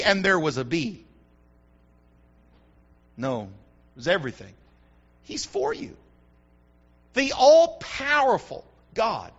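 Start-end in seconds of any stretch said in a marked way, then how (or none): 5.2-5.9 hushed whisper to the crowd; a soft secret for the congregation. Real, not acted. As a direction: lean in and whisper it. Preacher drops to a hush.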